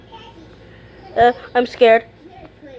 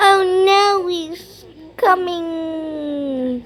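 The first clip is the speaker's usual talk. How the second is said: scared; 5 semitones higher, much slower than usual. Real, not acted. Seeing Cartoon Cat approach, gasping in fear. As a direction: dread as he approaches.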